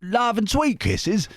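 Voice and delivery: high, hammed-up Australian-Cockney accent; Dick Van Dyke Cockney. Reader voices a letter from Chris, hammed-up Cockney. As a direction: put on an embarrassingly bad musical-chimney-sweep Cockney. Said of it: "kind of Dick Van Dyke".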